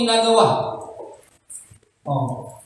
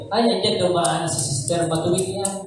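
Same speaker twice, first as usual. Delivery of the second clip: softer, low sneering aside; mocking gossip; 4 semitones lower, 5 dB quieter than usual. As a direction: whisper it like gossip about her. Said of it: "pag sinasabi kayo". (mapanuyang bulong tungkol kay Sister)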